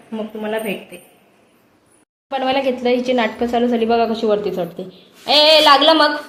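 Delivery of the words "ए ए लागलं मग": sharp warning call. Real, not acted. Mother shouting a warning at the climbing toddler. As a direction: stop her before she falls, loud.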